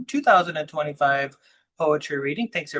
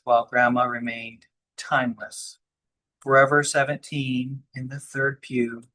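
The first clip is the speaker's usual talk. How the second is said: measured, even-toned poetry recital; poem reading; 4 dB louder than usual. Acted. Poet reading own poem to fellow poets, measured recital. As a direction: read it line by line, weighting key words, pausing between phrases.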